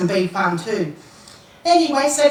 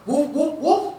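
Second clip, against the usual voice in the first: light woof woof imitating a dog; mock dog bark; barking imitation; 4 semitones higher, slower than usual. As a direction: bark it out playfully, a little higher. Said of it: "we see the dog go".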